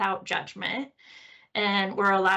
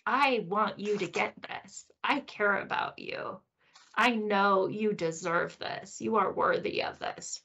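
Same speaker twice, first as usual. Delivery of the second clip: caring inner voice. Retold or imitated. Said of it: "behind that voice is concern".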